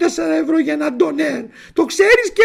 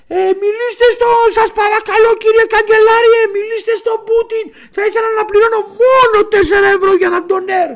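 mock angry shout; 4 semitones higher, 5 dB louder than usual. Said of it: "Άρχισε να φωνάζει ο άνθρωπος".

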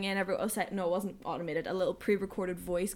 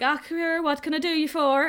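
imitating desk guy; 6 semitones higher, 5 dB louder than usual.

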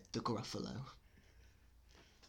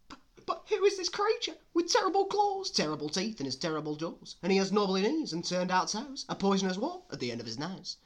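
fast, high rattle building to loud cries; hammed-up fright, louder and louder; panicking mouse; 9 semitones higher, 11 dB louder, faster than usual. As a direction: gabble it in mounting alarm. Mouse meets the monster, horrified.

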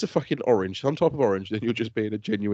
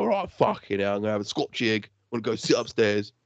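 mock London accent; 3 semitones lower than usual. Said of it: "she's like".

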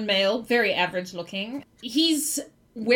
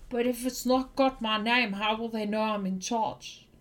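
mild whisper; 5 dB quieter than usual. Acted. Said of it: "you hear him whisper".

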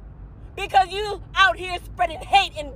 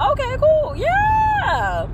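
squealed mock delight; 12 semitones higher, much slower than usual. Real, not acted. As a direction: sell it as a treat, sarcastically. Mock enthusiasm about hospital life.

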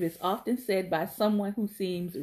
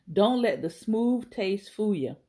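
slow demo. Shown as a demonstration.

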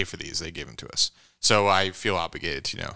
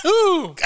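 burning ooh; 5 dB louder than usual. Real, not acted. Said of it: "my lips are burning".

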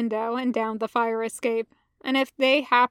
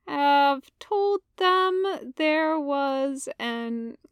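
sheepish confession; 4 dB quieter, much slower than usual. Acted.

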